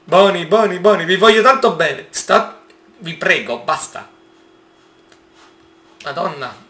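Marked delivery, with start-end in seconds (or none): 0.1-4.1 high, loud coaxing plea; anxious pleading. Real, not acted. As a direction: beg the beasts to calm down. Pleading with the raptors.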